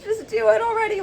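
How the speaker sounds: high, squealed urging; mock exasperation. Friend pushing someone to confess, in high mock exasperation. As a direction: urge it in a hammed-up high voice.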